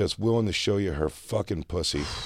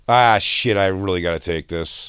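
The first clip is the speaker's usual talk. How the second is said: lightly oversold regret; selling the emotion; 4 dB louder than usual. Acted. Podcast host faking an urgent call to get away, selling the emotion. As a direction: make a reluctant apology sound sincere. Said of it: "I put the sell into the emotion".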